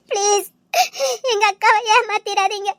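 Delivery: tearful pleading. Acted. Begging him to marry her sister.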